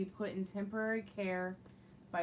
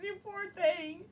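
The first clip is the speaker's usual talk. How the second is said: mock pity. Mock sympathy for viewer.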